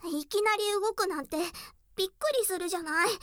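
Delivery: startled. Acted. Startled by sudden movement.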